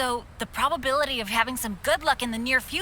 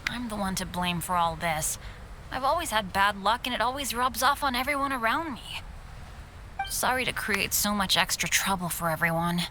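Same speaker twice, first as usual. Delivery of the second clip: lower, subdued and apologetic; downcast, taking the blame on yourself; dejected apology; 4 semitones lower, 4 dB quieter than usual. Acted. Unlucky boy apologizing to companions for the trouble, dejected.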